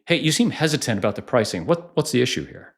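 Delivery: rushed, fast, pushy challenge to the prospect; confrontational, wrong way. Shown as a demonstration. Sales coach demos a pushy rep questioning a prospect, confrontational. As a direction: fire the question at them like an accusation. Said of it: "That's confrontational".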